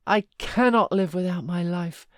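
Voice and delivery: loud anguished cry, CANNOT stressed; anguished lament. A narrator's reading. Heathcliff laments Catherine, loud and anguished.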